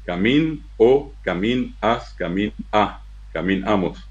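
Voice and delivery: "Camín, o, camín, as, camín, a" split between stem and ending; endings set apart. Shown as a demonstration. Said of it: "variando al final".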